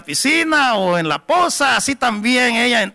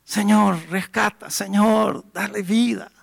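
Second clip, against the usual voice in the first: softer, hushed sorrowful plea to God; sad prayer; 3 dB quieter than usual. Retold or imitated. El predicador le ruega al Señor por la joven, triste y en voz baja. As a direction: pray quietly, pleading in sadness. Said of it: "Y yo triste".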